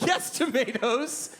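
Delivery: slow, drawn-out stoned confirmation; dazed slow yes. Retold or imitated. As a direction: savor the word like it's profound. Stoned customer confirms order.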